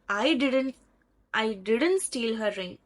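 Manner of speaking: "didn't" stressed above the other words. Shown as a demonstration. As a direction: lean firmly on "didn't". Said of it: "put the stress on "didn't".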